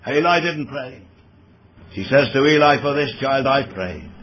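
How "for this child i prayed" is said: "I" given the emphasis; stress on I. Shown as a demonstration. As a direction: lean on "I" as the key word. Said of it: "the emphatic word there is I".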